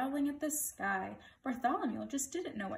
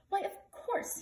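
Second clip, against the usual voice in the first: high-pitched eureka, a touch of laughter; mildly gleeful king; 9 semitones higher, slower than usual. A narrator's reading. King struck by an idea, mildly gleeful. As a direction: let a sudden idea lift the voice high. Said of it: "he began laughing".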